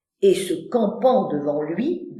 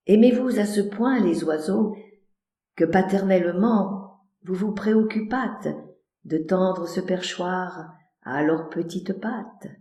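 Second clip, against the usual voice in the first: soft, fast, courtly lilt; sweetly flowery; gracious; 3 semitones lower, 4 dB quieter than usual. Acted.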